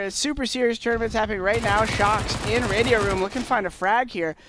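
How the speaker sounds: mock play-by-play caster. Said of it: "our best play-by-play impression".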